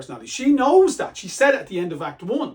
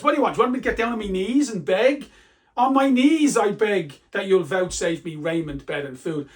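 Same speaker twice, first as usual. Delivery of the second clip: a bitter, mocking plea, faster on the second question; sarcastic; 3 dB louder than usual. Lear mocks Regan by offering to beg on his knees. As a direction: sneer the begging back at her. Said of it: "kind of sarcastically says".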